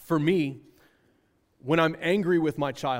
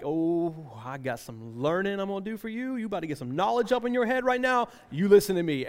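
lightly hammed-up parent gearing up for a speech; mock-eager lead-in, climbing in pitch; lecturing parent; 3 semitones higher than usual. Dad sitting the kids down for a big speech, mock lecturing.

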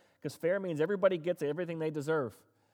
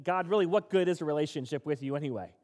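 a mild frustrated plea to God; voicing Abraham's complaint, only lightly heated; frustrated outcry; 2 semitones higher, 3 dB louder than usual. Abraham complains to God about having no kids, mildly frustrated. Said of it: "Abraham cries out".

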